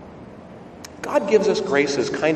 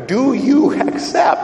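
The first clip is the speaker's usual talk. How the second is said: put-on higher, louder, slow Italian-accented demand; insistent Italian accent; 10 semitones higher, 6 dB louder, slower than usual. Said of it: "in a thick Italian accent".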